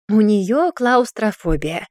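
slow, talking down to him; slow condescending remark. Acted. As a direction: explain it like to a child. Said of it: "снисходительно пояснила Сианна".

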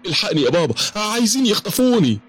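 put-on high, pleading little boy's cry for help; frightened child crying out. Little son calling his father for help, high and frightened. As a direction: cry out like a scared small boy.

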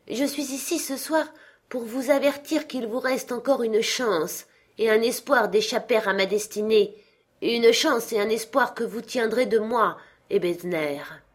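a chained spirit grieving his wasted life; Marley's ghost. Acted. Ghost warns Scrooge. (le fantôme de Marley, plainte solennelle et forte)

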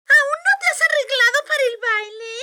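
high, loud, fast sneer; mocking stepsister. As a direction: taunt her in fake pity. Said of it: "dijeron las hermanastras".

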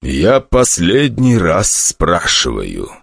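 very slow, flat-toned threat; a cold, empty interrogator; emotionless voice. Acted. Stronger to the captive summoner, slow and emotionless. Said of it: "Таким же безэмоциональным был и его голос".

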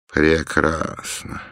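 slow, hurt single word; quietly hurt. Acted. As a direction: say it drawn out and upset. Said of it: "Голос у неё был расстроенный".

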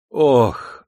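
relieved, heartfelt "oh"; joyful sigh. A narrator's reading. Flogged lad breathes free in sunshine, joyfully sighing. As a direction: let out a glad sigh. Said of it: "радостно вздохнул парень".

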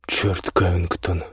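slow, stretched-out drawl. Acted. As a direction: stretch every word lazily. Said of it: "растягивая слова".

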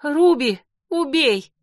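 high, loud shout; shouted command. A narrator's reading. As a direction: yell the kill order. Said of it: "закричала я".

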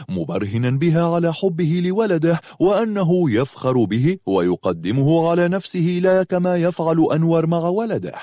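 ordinary delivery, nothing marked

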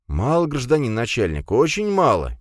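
high, plaintive lament; plaintive and put-upon; mock-mournful plea. A narrator's reading. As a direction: complain sorrowfully, pitch rising well up. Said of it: "печально кивнул вор".

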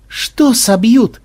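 high, drawn-out mocking question; smirking. A narrator's reading. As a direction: smirk through a stretched, lilting question. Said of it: "ухмыльнулся Ксенобайт".

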